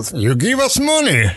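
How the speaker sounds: high, playful imitation of an Irish accent. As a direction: quote him in a hammy Irish accent. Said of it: "со своим ирландским ... акцентом говорил".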